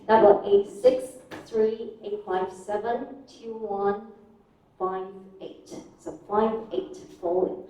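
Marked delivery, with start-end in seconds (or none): 0.1-5.7 phone number read in chunks, final fall; grouped number intonation. Shown as a demonstration. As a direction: rise on each group, fall on "five eight". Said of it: "rising intonation for each group ... falling at the end".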